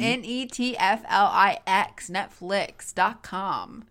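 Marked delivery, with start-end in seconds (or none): 0.0-2.1 letters spelled slowly. Shown as a demonstration. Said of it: "spell it out".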